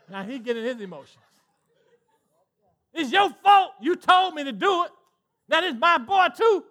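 husband pleading his case to his wife; mock exasperated husband. Voicing Abraham arguing with Sarah.

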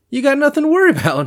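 fast, high, laughing through words. Real, not acted. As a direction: breaks into a laugh mid-line. Laughs mid-sentence.

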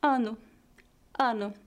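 "Ano" ending in a light U, "A-nu"; final O as weak U. Shown as a demonstration. Teacher demonstrating final O, "Ano" said as "A-nu". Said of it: "soa como um U fraco".

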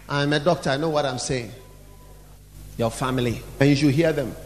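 low, subdued know-it-all voice; self-important doctor. Acted. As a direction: speak low and quietly, full of authority. Plays a self-important doctor making excuses.

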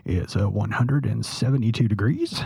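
lightly voiced airline captain; a hint of a captain on the intercom; pilot announcement voice. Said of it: "You have a pretty good captain voice".

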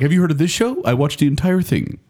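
imitating Jacob. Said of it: "Every week he's like".

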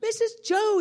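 long, high, loud call; imitated drawn-out yell; retold calling out. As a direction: call to someone across the street. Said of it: "he, he yells out".

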